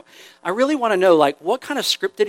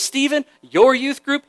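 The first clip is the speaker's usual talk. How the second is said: disappointed God; 6 semitones higher than usual. Retold or imitated. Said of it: "when he looks at you and says".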